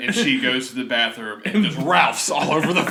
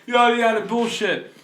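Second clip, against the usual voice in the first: mocking vegans; 7 semitones higher, 5 dB louder than usual. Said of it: "But people are like".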